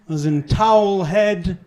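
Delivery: slow, loud, plummy aristocratic voice; Jacob Rees-Mogg impression. Comedian voicing Rees-Mogg interrogating an Irishman, slow posh sneer. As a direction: lord it over him with a slow posh sneer. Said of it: "impression of Jacob Rees-Mogg".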